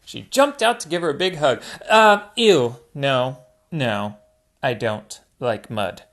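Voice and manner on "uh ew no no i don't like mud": Hannah's voice. Acted. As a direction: pull back from the mud hug. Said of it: "said Hannah".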